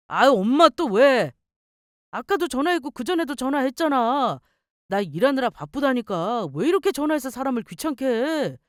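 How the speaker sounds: lightly voiced grown son fed up with calls; irritated son. Son on the phone groans at his mother's repeated calls, exasperated.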